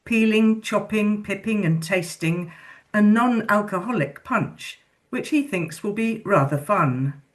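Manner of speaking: measured poetry reading voice; poem reading. Acted. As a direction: read it like a live poem. Reads a poem aloud.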